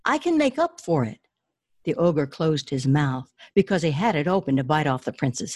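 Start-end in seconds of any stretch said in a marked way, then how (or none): 0.1-1.2 much higher, desperate plea; pleading prince. Acted. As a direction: beg for your life.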